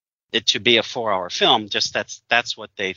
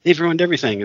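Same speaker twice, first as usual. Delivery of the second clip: mock fan complaint; 3 semitones higher than usual. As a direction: parody the fans who moan it's all ruined. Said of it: "people want to talk about".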